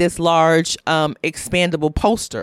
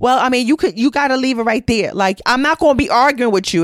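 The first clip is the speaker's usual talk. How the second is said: irritated voice pushed out higher. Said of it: "She goes".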